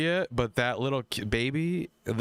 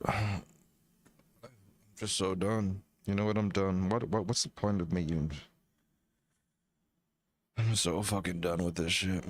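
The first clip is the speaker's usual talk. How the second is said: bad acting; 3 semitones lower than usual. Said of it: "That was the worst acting ever".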